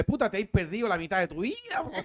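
put-on Chilean accent. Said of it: "como dicen los tíos míos en Chile".

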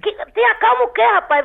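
high-pitched indignant retort; agitated. Real, not acted. Woman told by caller to calm down, agitated. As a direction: throw the words back, refusing to calm down. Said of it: "Eu tô mais do que nervosa".

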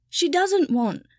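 high loud shout. Acted. Elf shouting at his master, loud. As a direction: burst out shouting. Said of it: "Kipper shouted".

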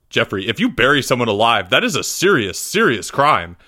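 stern teacher stressing "serious, serious crime"; grave warning. A narrator's reading. Teacher warning Jeffrey about burying someone, grave emphasis on "serious". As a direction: hit both words "serious" emphatically.

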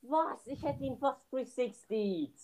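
high shocked cry of Nein; loud disbelieving yell, pitch jumping up; dismayed shout. Real, not acted. Missed the killer, dismayed cry.

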